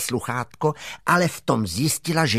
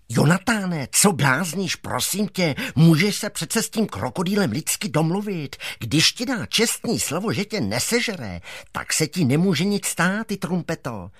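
put-on lightly raised, chiding boy; a hint of a coaxing scold; 5 semitones higher than usual. Boy scolds the dog for being silly, mildly chiding.

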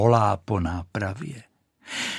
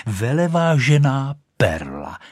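mishearing proudly; 4 semitones higher, 3 dB louder than usual. Acted. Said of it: "tak to řekl".

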